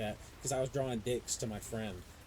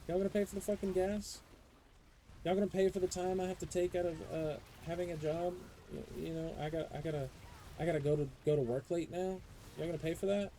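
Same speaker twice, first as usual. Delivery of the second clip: indignant rant; 5 semitones higher than usual. Retold or imitated. Ranting at school as parent.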